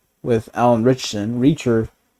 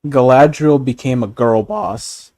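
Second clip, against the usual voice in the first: voice cracking. Real, not acted. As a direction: voice cracks mid-line. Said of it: "my voice cracked".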